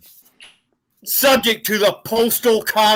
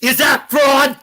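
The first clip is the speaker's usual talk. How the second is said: yelling; 3 semitones higher, slower than usual. Real, not acted. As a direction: shout the question in anger. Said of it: "Stop yelling at me".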